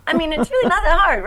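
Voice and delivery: breathy whispered aside. Real, not acted. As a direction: whisper it knowingly. Aside after bus analogy.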